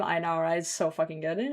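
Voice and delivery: ordinary delivery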